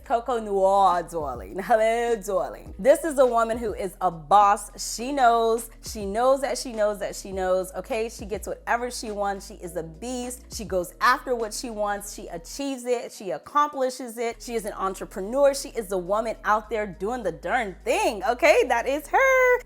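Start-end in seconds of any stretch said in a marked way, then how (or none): 0.0-2.7 sultry darling. Acted. Greeting the perfume Coco Noir. 18.7-19.6 emphatic high. Acted. Emphatic finish describing boss woman.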